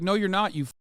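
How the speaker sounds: mock parent yelling. Mocking a conservative parent yelling at the child. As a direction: berate the child in a hammed-up rage. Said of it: "I'll be like".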